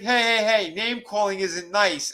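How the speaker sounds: high, sing-song creepy scolding; hammed-up high tut-tutting; high mock scolding. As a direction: chide her in a high silly voice. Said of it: "He's like".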